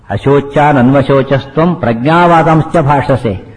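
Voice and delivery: slow, measured Sanskrit recitation; verse recitation. Shown as a demonstration. Teacher quoting Krishna's first words to listeners, slow recitation. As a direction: draw out each syllable of the verse.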